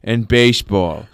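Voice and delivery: lightly voiced peasant farmer; a hint of a slurring country visitor; farmer friend. Old farmer friend explaining his trip to America, lightly put-on peasant voice. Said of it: "he was, like, a farmer".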